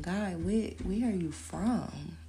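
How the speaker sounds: slow, charmed question; drawn-out flattered wonder; intrigued swoon. Retold or imitated. Flirting with the foreign guy, slow and charmed. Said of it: "I'm like, the accent is just so intriguing".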